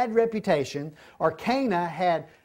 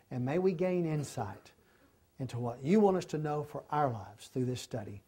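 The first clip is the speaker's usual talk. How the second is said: closing prayer; 4 semitones lower than usual. Acted.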